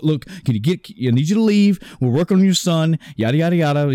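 panicked surgeon. Retold or imitated. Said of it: "now the surgeon's very panicked".

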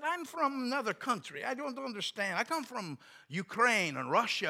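high-pitched Eastern European broken English. Retold or imitated. Visitor explaining his origins to clerk, broken English accent. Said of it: "he spoke real broken English".

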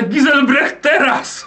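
high, urgent battle cry; shout. Acted. Player's character shouting to Giselbrecht in battle, high battle cry. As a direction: call the ally to strike now. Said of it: "jak krzyczę".

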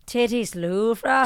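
slow, badly faked Scottish lilt; bad Scottish accent. Shown as a demonstration. Speaker retrying the practice phrase, bad Scottish accent. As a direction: attempt Scottish, drawing out the last word. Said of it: "I can't do it. It's bad".

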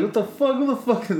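high, incredulous mock protest; retold outrage. Teenager protests to the lady, high mock-outraged voice.

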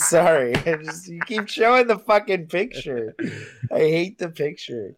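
laughing through the words; can't stop laughing at the picture. Real, not acted.

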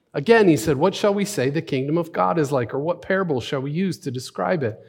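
lifted, livelier parable telling; animated scripture reading. Acted. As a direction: read it aloud with rising energy. Second, livelier reading of passage.

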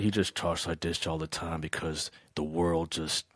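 low, soft Southern drawl; weary Southern farmer drawl. Shown as a demonstration. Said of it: "he's like".

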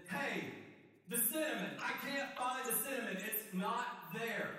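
high, loud, insistent yelling; frantic shout. Acted. Housemate yelling from the pantry that it's not there. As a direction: shout like the cinnamon vanished.

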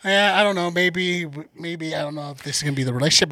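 lightly hesitant, mild imitation; nice and light. Co-host mimics her talking to a friend, nice and light. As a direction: make the complaint sound gentle and noncommittal. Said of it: "sounds really nice and light".

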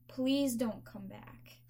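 drawn-out please don't come back; slow pointed dismissal. Retold or imitated. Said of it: "I'm like".

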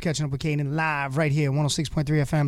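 announcer voice introducing the show; radio announcer. Acted. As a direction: present it like a radio DJ. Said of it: "announcing the radio show".

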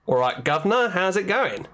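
a light put-on cheeky lad from the eighteen hundreds, slipping toward Australian; chirpy Victorian boy. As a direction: greet your mate like a cheeky street boy of old London, barely in voice. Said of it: "I was supposed to be like a, a chirpy little boy from, you know, the eighteen hundreds".

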